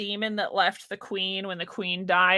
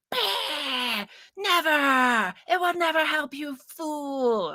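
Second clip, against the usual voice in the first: cartoon villain scoff; 7 semitones higher, much slower than usual. People refusing a petition, hammed-up villain scoff. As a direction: scoff like a theatrical old villain. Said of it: "all the people be like".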